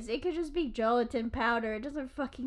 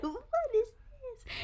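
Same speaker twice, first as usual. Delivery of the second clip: high, slow put-on voice; playful goofing; 12 semitones higher, 4 dB quieter, much slower than usual. Boy showing buddy a sock monkey, playful goofing. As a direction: draw it out high and silly.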